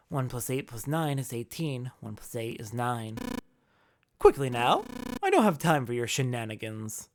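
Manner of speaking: a gentleman killer toying with them; calm menacing villain. Acted. Ace voiced.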